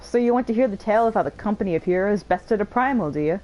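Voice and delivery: lightly voiced bragging veteran; boastful old warrior. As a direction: swagger through the tale of glory, hammed-up a bit. Voices boastful hero Tractome.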